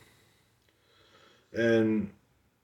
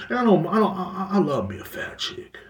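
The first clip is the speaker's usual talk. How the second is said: laughing through the words; 6 semitones higher, 3 dB quieter than usual. Real, not acted. Laughing while backpedalling to viewers about loving fat chicks. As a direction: chuckle as you backpedal.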